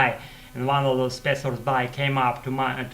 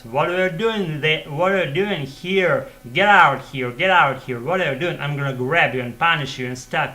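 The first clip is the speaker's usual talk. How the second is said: mock angry yell, a little higher; retold yell; 3 semitones higher, 4 dB louder than usual. Guard yelling at children hiding in the metal cube, retold yell. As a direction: imitate a guard yelling at intruders. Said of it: "he yelled at us".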